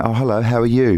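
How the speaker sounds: mock English accent of a returned traveller; lightly affected English greeting; put-on English accent. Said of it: "You do not have an accent".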